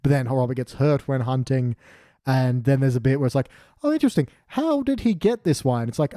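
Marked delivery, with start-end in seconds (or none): 3.8-5.9 mock intrigue. Mock sleuthing voice in recap.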